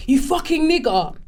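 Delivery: imitating an abuser, slowed and pointed; hostile insult. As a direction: spit it out like a slow insult. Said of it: "It's different".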